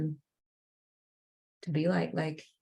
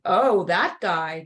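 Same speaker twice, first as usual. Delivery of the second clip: scared realization; 5 dB louder, much slower than usual. Retold or imitated. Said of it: "he's like".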